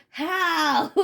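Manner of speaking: high, incredulous, breaking into laughter; laughing mock disbelief. Asked to trust a false friend, laughing disbelief. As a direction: play it astonished and crack up.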